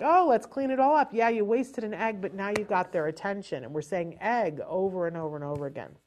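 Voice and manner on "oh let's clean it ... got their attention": playful cleanup. Shown as a demonstration. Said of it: "I'd be like".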